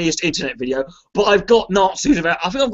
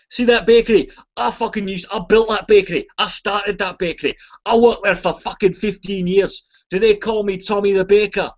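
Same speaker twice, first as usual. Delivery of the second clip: put-on ranting old Scotsman; 3 semitones higher than usual. Joke: angry Scottish man's rant.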